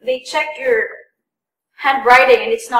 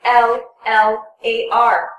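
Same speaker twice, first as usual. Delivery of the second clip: slow spelling; slower than usual. Shown as a demonstration. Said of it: "some people would spell it out as".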